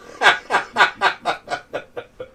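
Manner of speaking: loud burst of laughter; hearty laughing fit; real laughter. Real, not acted. Laughs at chat message.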